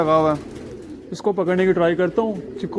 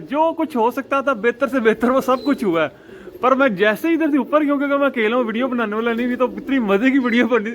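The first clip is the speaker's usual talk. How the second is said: excited retelling; 5 semitones higher than usual. Real, not acted. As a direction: rush through it like the best story of the day. Excitedly retelling chasing the pigeon. (उत्साह से ऊँची और तेज़ आवाज़ में किस्सा सुनाते हुए)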